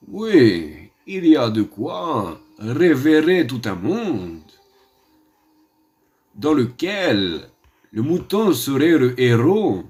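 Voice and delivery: a lightly voiced grand, theatrical painter; Salvador Dali. Mock painter lecturing his audience on sheep, lightly voiced grand tone. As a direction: hold forth like a lofty surrealist, slowly. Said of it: "Il me semble que j'imite très bien Dali".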